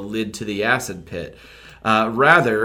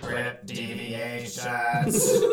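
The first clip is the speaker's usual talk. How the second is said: dramatic announcer; 6 dB quieter, much slower than usual. Acted.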